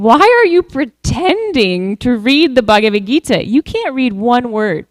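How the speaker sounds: scornful imitation of jeering locals, drawn out on key words; mock taunt, pitch swooping up on the stressed words; mocking ridicule. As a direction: ridicule him with slow, incredulous emphasis. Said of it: "would ridicule him, saying".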